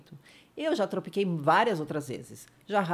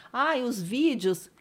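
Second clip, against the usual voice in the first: higher, louder slow pleading; daughter's worried question; 6 semitones higher, 6 dB louder, slower than usual. Retold or imitated. Daughter at bedside asking about videos, higher. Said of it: "Minha filha tava do lado e falou assim".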